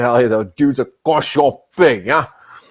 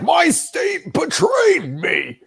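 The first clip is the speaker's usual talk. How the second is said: high wailing mock sob of betrayal; mock crying wail; much slower than usual. Streamer mocking a sore loser, wailing high. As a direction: whine it like a heartbroken loser, much higher. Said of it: "He's like".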